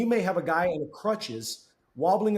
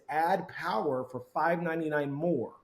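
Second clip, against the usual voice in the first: ad slogan. Retold or imitated. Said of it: "ad campaign that said".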